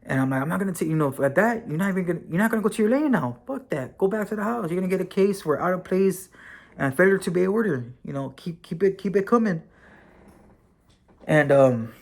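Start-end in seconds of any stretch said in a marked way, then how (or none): 0.4-9.6 higher, fast heated officer tirade; officer yelling back at the inmate, heated; retold angry yelling. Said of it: "he yelled at me. So I'm there getting back at him".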